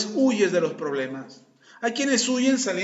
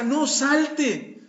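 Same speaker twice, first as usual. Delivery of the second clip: higher clipped mock command; curt order; 6 semitones higher than usual. Speaker with no vocabulary ordering the other out. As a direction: bark it, out of words. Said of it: "acted quarrel".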